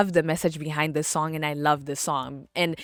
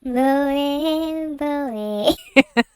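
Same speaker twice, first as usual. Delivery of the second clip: high, drawn-out sung syllables; held high notes breaking into a laugh; wordless singing; 9 semitones higher than usual. Retold or imitated. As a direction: playfully belt out nonsense syllables like a song hook. Singing along, then says I'm crazy.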